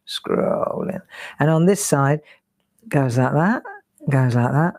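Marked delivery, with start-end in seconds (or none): 0.1-1.0 whispered. Shown as a demonstration. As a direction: whisper "Scrolling" softly, no voice.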